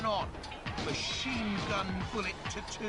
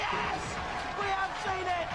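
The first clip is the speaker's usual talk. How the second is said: excited; 13 semitones higher, faster than usual. Real, not acted. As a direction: build to a shout of delight. Excited commentary on a flip.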